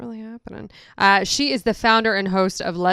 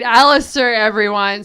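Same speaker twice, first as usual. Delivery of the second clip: announcing a guest; 6 dB louder than usual. Shown as a demonstration.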